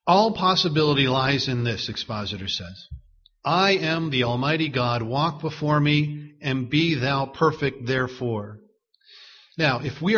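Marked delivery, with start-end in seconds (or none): 0.1-1.9 measured, deliberate reading; slow reading. Real, not acted. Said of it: "Try to read it slowly". 3.4-8.6 slow, deliberate scripture reading; unhurried, weighty quotation. Real, not acted. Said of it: "Try to read it slowly".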